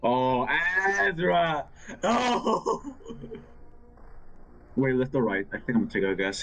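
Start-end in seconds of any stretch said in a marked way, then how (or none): 0.0-1.7 slow, drawn-out gleeful call; excited. Real, not acted. Spots and catches player. 2.0-4.9 high laughing yelp. Real, not acted. Laughing surprise while playing.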